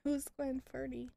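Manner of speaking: burp through the words; words pushed out on a burp; talking while burping. Real, not acted. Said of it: "can we stop burping now".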